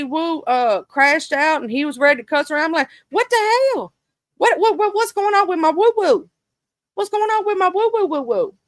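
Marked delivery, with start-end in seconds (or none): 3.1-8.5 high, squealed disbelief over a friend; squealing mock alarm. Streamer squealing in disbelief about her friend Lady Wu. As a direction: pitch it way up like you can't believe it.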